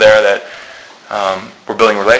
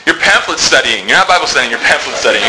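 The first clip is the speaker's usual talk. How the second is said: laughing mock retort; 4 semitones higher than usual. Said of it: "It's like".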